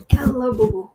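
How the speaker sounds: whispered, tender hello. Real, not acted. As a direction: breathe a whispered hello to a pet. Greeting Boo Boo the cat.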